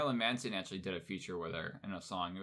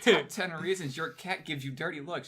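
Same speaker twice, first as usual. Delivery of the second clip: clickbait video narrator; 6 semitones higher than usual. Retold or imitated. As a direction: read it like a teaser ad. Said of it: "the BuzzFeed".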